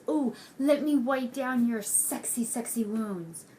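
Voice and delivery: mocking a sugary villainess; mock sweet and nice. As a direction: lightly put on a fake-sweet coo. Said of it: "tries to be all sweet and nice".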